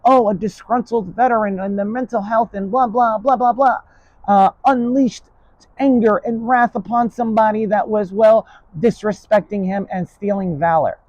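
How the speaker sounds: high, sing-song parody of a news pundit; high-pitched pundit parody; mocking media voice. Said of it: "the media is gonna play out".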